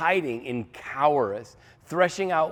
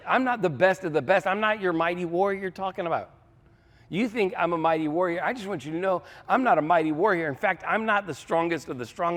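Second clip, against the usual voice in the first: high-pitched, insistent self-deprecation; incredulous protest; 5 semitones higher than usual. Acted. Gideon protesting to God that he is no warrior, high and insistent. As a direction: plead that they have the wrong person.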